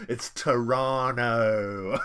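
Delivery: slow, stretched local Toronto "Toronto", dropping the second t as "Tor-ah-no"; drawn-out local "Toronto" said like "Tor-ah-no"; Toronto local accent. Retold or imitated. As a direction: mimic a Toronto local saying "Toronto". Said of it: "You're doing an accent".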